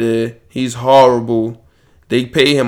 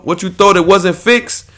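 usual speaking voice

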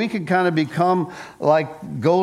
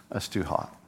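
Goldilocks; 8 semitones lower, 9 dB quieter than usual. Acted. Goldilocks tasting papa's porridge.

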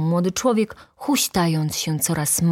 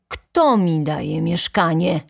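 usual speaking voice

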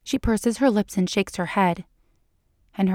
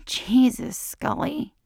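higher-pitched relieved exclamation; 6 semitones higher, much slower than usual. A narrator's reading. He realizes she was only joking, relieved. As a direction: let relief lift the voice, then fade.

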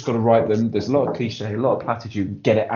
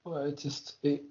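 whisper; 4 semitones higher, 14 dB quieter than usual. Real, not acted. Whispered aside in football chat.

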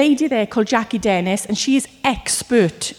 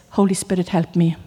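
quiet plea; 5 semitones lower, 3 dB quieter than usual. Shown as a demonstration. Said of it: "the best prayer you can ever pray".

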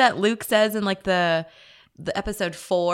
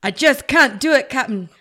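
loud, overwrought impression, rising to a big finish; hammed-up desperate engineer's cry; Ace Ventura; 4 semitones higher, 10 dB louder than usual. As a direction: strain and belt out the last word. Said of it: "Ace Ventura".

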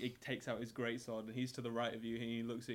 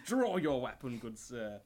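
knight's challenge; 6 dB louder, slower than usual. Acted. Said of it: "he goes".

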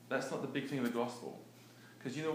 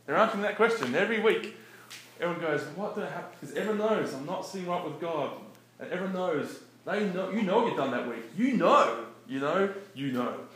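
higher, louder, driving emphasis; rising preacher intensity; 5 semitones higher, 8 dB louder than usual. Real, not acted. Preacher stirring listeners about churchgoers' guilt, building excitement. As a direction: push it up like a sermon climax.

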